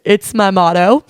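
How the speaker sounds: cheeky retort. Retold or imitated. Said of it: "And he laughed".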